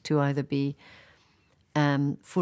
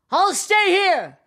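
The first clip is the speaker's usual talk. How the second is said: high, loud, slow shout; 8 dB louder, slower than usual. Acted. Narcissus shouting to the unseen voice, high loud call. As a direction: call it out across the valley. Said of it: "he shouted".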